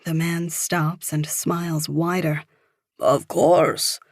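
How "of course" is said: put-on older Frenchman's accented English; thick French accent. A narrator's reading. Older man replies to a stranger, thick French accent. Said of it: "he says with a thick French accent".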